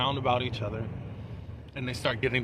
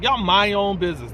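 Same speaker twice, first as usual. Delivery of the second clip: higher, louder imitated snap at onlookers; mock-indignant outburst, raised in pitch and volume; retold telling-off; 6 semitones higher, 8 dB louder than usual. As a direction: act out telling nosy bystanders off. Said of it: "Danny was cussing out Rich".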